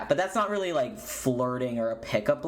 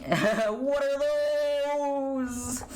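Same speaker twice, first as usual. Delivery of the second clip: amused surprise; 11 semitones higher, much slower than usual. Real, not acted. Reacting to chat.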